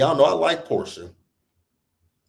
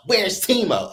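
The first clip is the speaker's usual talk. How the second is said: repeated nosy question; 7 semitones higher than usual. Retold or imitated. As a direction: ask it again, less forcefully. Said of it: "So she's asking Stacey".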